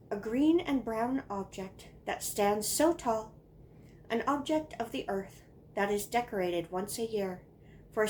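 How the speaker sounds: deliberate recitation, line by line; poem reading. Acted. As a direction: read a child's Christmas poem with mock importance. Reads childhood poem aloud.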